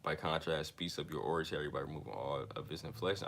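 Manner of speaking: measured, deliberate book reading; reading aloud. Real, not acted. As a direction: read it out evenly, phrase by phrase.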